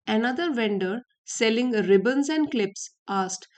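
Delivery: slow, deliberate reading of the English text; story reading. Acted. Teacher reads the story to her students, slow and careful. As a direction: read each phrase out slowly for learners.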